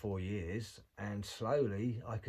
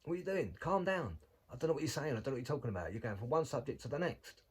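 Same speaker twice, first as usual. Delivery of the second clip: higher, pleading mock Rogan; exasperated Joe Rogan; 5 semitones higher than usual. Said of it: "He said".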